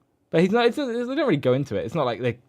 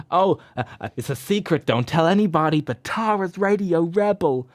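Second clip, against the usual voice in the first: mock dumb friend; 5 semitones higher, 3 dB louder than usual. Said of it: "she's pretty dumb".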